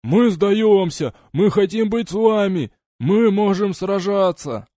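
high, loud, slow desperate shouts; shouting surrender. A narrator's reading. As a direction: yell it across to the pirates. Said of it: "крича и поднимая вверх пустые руки".

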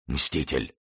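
soft dying murmur; whispering. A narrator's reading. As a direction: breathe out the word as you fall. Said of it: "прошептав". (предсмертный шёпот)

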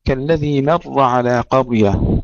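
slow كالذي مر with thin م and heavy ر; slow, light م in مر, full ر; thin meem heavy ra. Shown as a demonstration. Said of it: "ترقيق الميم وتفخيم الراء".

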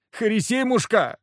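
pleading peasant wailing; whining. Acted. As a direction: wail his name through the door. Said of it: "заныли за дверью".

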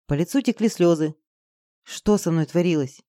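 usual speaking voice

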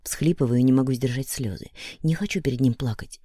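plain reading voice

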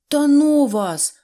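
loud, high, slow brush-off; dismissive. A narrator's reading. Neznaiko brushing off the mechanics, dismissive. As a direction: wave them away in annoyance. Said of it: "відмахнувся Незнайко".

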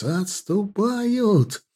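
very high, long stretched cry; joyful shout. A narrator's reading. Stas repeats news of the retreat, shouting joyfully. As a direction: stretch every syllable in high jubilation. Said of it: "радостно выкрикнул Стас".

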